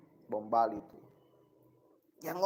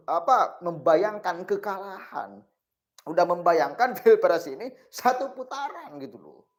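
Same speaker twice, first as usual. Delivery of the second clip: cigarette in mouth; 2 semitones higher, 4 dB louder than usual. Real, not acted. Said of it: "ngomong sambil ngerokok kurang cocok".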